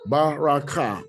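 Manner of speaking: "Baraka" as ba-ra-ka, each ending on a vowel; open syllables. Shown as a demonstration. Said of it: "All this is open syllables".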